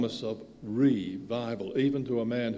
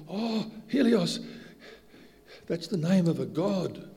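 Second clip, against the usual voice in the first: mock-impressed quote; 5 semitones higher than usual. Mocking quote of dog owners.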